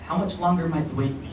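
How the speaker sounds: restrained, carefully polite question; understated politeness in a recited poem; most polite. Acted. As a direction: ask it with mild, measured courtesy. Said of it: "in the most polite tone".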